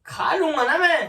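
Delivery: irritated shout. Real, not acted. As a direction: snap back loudly that you'll eat. Annoyed husband pestered to eat.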